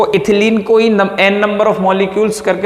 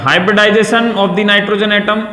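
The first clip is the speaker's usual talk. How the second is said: slow dictation; 2 semitones higher, much slower than usual. Shown as a demonstration. Teacher dictating a note.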